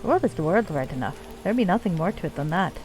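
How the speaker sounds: put-on lightly done Scottish accent for a dwarf leader; bad Scottish accent. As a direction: play the dwarven chief with a rough-and-ready Scottish accent. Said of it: "my really bad Scottish accent".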